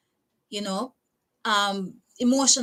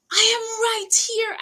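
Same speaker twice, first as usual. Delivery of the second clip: slow, high, pressing "I am right here"; retold plea; 10 semitones higher, 3 dB louder than usual. Insisting to the nurse, a mild retold plea. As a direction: stretch out "I am right here", pleading a little. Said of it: "And I'm like".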